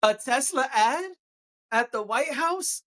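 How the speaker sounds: rising, mock-shocked "A Tesla ad at the White House?"; incredulous. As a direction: repeat it like you can't believe it. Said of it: "I'm being satirical".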